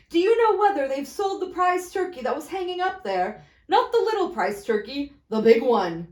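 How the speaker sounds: put-on excited old man leaning out; eager Scrooge.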